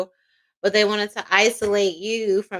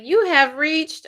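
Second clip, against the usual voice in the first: voicemail greeting; 4 semitones higher, slower than usual. Retold or imitated. Imitates a voicemail greeting again.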